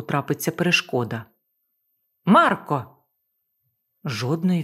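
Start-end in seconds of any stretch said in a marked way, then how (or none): 2.2-2.9 loud call from the wheel. Acted. Woman alone at the helm calling Marko, loud. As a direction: shout his name into the distance.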